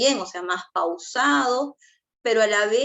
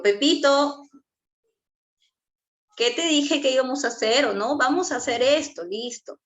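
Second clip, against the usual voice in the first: put-on higher-pitched parent-to-child voice; raised tone for a child; 5 semitones higher than usual. Shown as a demonstration. Parent calling Pepito to get his attention, raised tone. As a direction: call the child's attention in a lifted tone. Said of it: "voy a hablar con un tono más arriba de lo normal".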